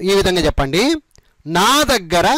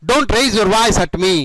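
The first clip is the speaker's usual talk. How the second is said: slowly, each word separate; slow model sentence; much slower than usual. Shown as a demonstration. Teacher demonstrating the phrase to learners, slow and careful. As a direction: lay it out slowly for students to repeat. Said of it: "ఈ విధంగా చెప్పండి".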